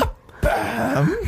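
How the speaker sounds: high, stretched fake English accent; bad English accent. Shown as a demonstration. Trying out the coached phrase, mock English accent. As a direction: echo it in hammed-up English. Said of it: "capture that accent".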